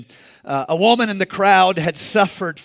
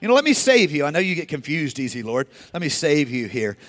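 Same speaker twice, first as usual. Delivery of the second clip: overly helpful Peter; 3 semitones lower than usual. Acted. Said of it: "Peter's always helpful".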